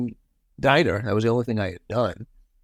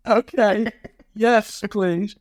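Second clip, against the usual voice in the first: high-pitched, loaded yes; retold eager pleading, pitched high; eager agreement; 9 semitones higher, much slower than usual. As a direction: act out jumping at an offer, voice way up. Acting out their eager agreement to Yoko.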